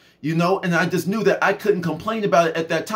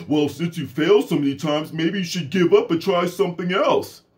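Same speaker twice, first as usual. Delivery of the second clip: lightly voiced doubting parent; discouraging parent. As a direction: imitate a parent talking a child out of it. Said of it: "some of y'all say".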